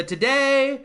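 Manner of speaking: lightly declaimed mock stadium speech; Norm Macdonald impression. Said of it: "it's Norm Macdonald doing that".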